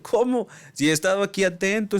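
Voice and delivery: mock outrage at the missed bus; retold disbelief. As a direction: him to the clerk, caught off guard and disbelieving. Retold shocked reply to clerk.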